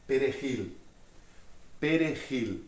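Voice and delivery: "Perejil" with the J as an H-like throat sound; Spanish J. Shown as a demonstration. Teacher points out the J to learners, Spanish J sound in "Perejil". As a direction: say "Perejil" as pe-re-HIL, with a clear final L. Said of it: "Ó o J".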